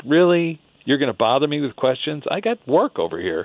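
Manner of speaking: a hint of a put-out, grumbling old guide; grumpy curmudgeon. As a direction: play him mildly annoyed at being bothered. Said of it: "Her guide is kind of a curmudgeon".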